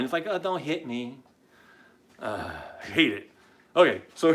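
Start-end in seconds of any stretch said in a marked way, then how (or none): 0.3-1.2 softer, mocking whimper; mock scared whine. Host mimics Wilbur cowering from a blow, mock scared whine. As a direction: imitate a cowardly whine, exaggerated. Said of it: "It's a scared whine".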